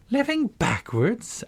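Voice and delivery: high, slow, astonished question on "Living backwards"; great astonishment. Acted. Alice echoing the Queen's odd claim, astonished. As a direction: gasp the words back in disbelief. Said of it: "Alice repeated in great astonishment".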